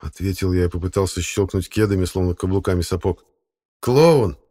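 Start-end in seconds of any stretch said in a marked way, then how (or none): 3.8-4.4 a loud, higher one-word put-down; scornful verdict. A narrator's reading. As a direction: sum him up with disdain. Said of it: "подытожил".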